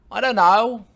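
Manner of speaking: loud, high put-on British voice; impression slipping into British; accidental British accent. Old-couple impression gone wrong, accidental British accent. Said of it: "Oh, that's British".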